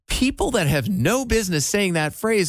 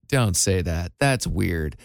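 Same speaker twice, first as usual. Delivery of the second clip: deep, put-off "don't say that"; lower, disgusted kid voice; 11 semitones lower, slower than usual. Pretend. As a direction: scoff like an embarrassed kid. Kid scolding mom's slang.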